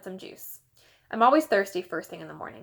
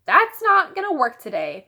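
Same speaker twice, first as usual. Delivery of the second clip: louder, higher firm refusal; stern mom; 7 semitones higher, 7 dB louder than usual. A narrator's reading. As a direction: shut the charm down. Mom refusing Fudge's charm.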